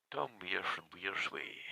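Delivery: slow, soft whisper of the name. Real, not acted. Vlogger whispering the name at the statue. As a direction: breathe the name quietly.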